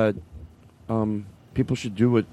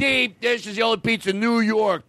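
angry argument; 9 semitones higher than usual. Acted. Acted pizza shouting match.

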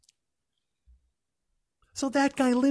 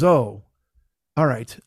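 lower, dim mock cashier drawl; dopey cashier; 10 semitones lower, slower than usual. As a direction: play the slow checkout guy, lightly. Cashier voiced in retold story.

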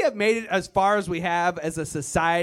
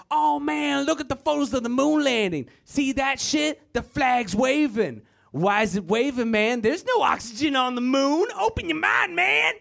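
higher and rising, stoner-like insistence; conspiracy theorist; 6 semitones higher than usual. Retold or imitated. Theorist explaining the moon landing, rising excited voice. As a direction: build up to a squeaky open your mind. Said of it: "they're like".

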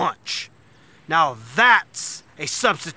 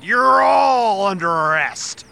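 shouting; 4 dB louder, slower than usual. Acted. Cop arrests the kids.

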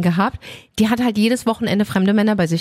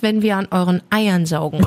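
laughing; 3 semitones lower than usual. Real, not acted. Asks embarrassing question, bursts out.

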